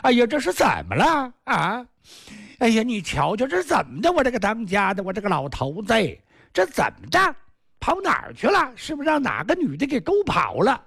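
high, crying wife's lament; wailing young wife. Acted. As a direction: wail it like a frantic wife fearing her husband ran off. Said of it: "这个哭啊". (高声哭诉的小媳妇)

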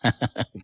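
short mocking laugh; cold sneering chuckle. A narrator's reading. Captor carries on after scoffing, cold chuckle. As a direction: chuckle coldly to yourself. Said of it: "冷笑道".

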